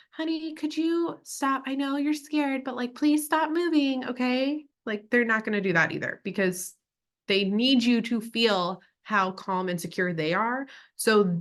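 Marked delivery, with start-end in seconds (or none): 0.2-4.1 mock pleading, much higher pitched. Describing how a good paramedic won't talk to a patient, demonstrating mock pleading. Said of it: "They're also not going to be like".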